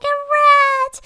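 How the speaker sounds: high, loud imitation of a panicked mama; hammed-up frightened screech; mock scream. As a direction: shriek it like she's seen a rat. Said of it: "my mama screamed 'cause she thought".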